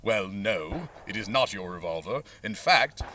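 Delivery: put-on a light, understated British accent; a hint of a British accent, brushing off the claim. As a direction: play the dismissive British official in a British accent. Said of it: "and I'll stop the British accent".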